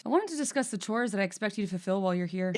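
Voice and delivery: quick, lightly Irish-tinged employer voice; Andrew Scott. Acted. Mister Gold setting out chores, lightly Irish-accented voice. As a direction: lightly put on an Irish actor's delivery. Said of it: "I sound like Andrew Scott".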